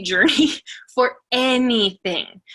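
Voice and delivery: laughing through the word journey, slowed. Real, not acted. Speaker to team, laughing about her slow journey. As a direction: chuckle it out slowly with feeling.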